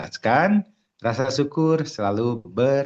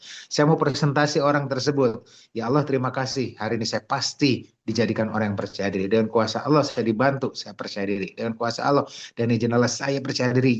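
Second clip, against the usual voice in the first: sincere affirmation. Shown as a demonstration. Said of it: "Itu afirmasi".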